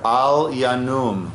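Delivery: measured, phrase-by-phrase psalm leading; slow prayer recitation. Real, not acted. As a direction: recite slowly for others to repeat. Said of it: "I'll say it slowly".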